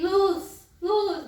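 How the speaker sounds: loud, high one-word demand; imitated child's cry. Child in crisis bothered by the light, loud imitated call.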